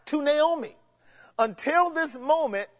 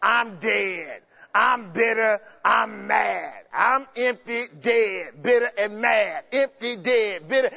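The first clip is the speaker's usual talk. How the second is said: whiny mother-in-law; slower than usual. Retold or imitated. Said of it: "tired of mother-in-law talking about".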